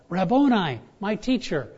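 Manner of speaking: loud, high cry of recognition. Retold or imitated. Mary cries out to her risen teacher, loud and high. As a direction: cry the name out to him. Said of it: "she screams out, cries out".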